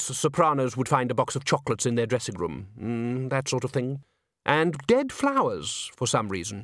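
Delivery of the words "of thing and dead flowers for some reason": plain reading voice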